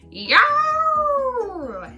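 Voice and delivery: high, loud yelping bark; dog bark. Acted. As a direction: bark like a happy little dog. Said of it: "Sad barked".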